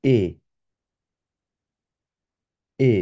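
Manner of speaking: এ said as a German "eh", not English "ee"; German letter E. Shown as a demonstration. Teacher contrasting German E with English. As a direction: model এ for repetition. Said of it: "ই কে বলবো হচ্ছে এ".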